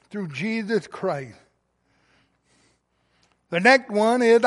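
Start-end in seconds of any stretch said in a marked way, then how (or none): 0.1-1.4 slow, much softer "Through Jesus Christ"; quiet echo. Real, not acted. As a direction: let it fall to a hushed repeat. Soft echo of previous line.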